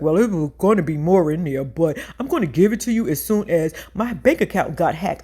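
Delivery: a hint of a sheepish boyfriend; mild fumbling excuse voice; lightly voiced excuse-making man. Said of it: "He was like".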